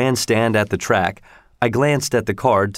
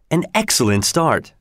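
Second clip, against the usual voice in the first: sudden cry; 3 semitones higher than usual. Acted. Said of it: "he cried suddenly".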